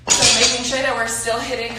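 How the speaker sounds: winded, out of breath. Real, not acted. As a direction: talk while out of breath. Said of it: "I'm out of breath from squatting him".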